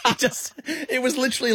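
put-on light New Zealand accent; Kiwi accent. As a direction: slip into a loose Kiwi accent. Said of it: "You put on a Kiwi accent for that".

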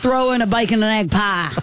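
Aussie-American bloke ordering a pie; light Aussie American twang; Aussie American accent. Pretend. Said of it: "That's how I reckon it sounds".

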